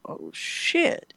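squeaky high breathless oh shit; mock panic, high and airy; caught-out alarm. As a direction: whisper it like you just got caught. District owner calls him.

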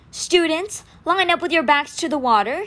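big commanding call to the line; booming. A narrator's reading. Statue teacher ordering her students, booming. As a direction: call it across the lawn like a drill instructor. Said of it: "she boomed".

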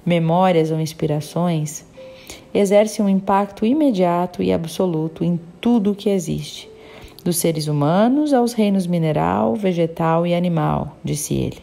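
measured, even read-aloud storytelling; audiobook narration. A narrator's reading. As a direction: read the passage out evenly, phrase by phrase. Reads a book aloud.

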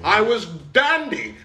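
hammed-up Cockney geezer, slowing on dandy; Cockney accent. Boasting to his friend after the pub: mock Cockney accent.

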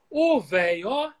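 curvy Bahian melody rising high; sing-song Bahian greeting; Bahian intonation. Shown as a demonstration. Demonstrating Bahian speech to a friend, curvy tune. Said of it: "ele faz uma entonação mais curvada".

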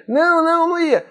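put-on very high little-kid voice; imitated child. Voices the child answering father.

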